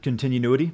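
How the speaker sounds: Continuity with an extra "noo" syllable, questioning; own pronunciation. Shown as a demonstration. Streamer asking chat how he said it, questioning pronunciation. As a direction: ask it as con-tin-yu-NOO-ity, rising. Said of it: "Isn't that how I pronounced it".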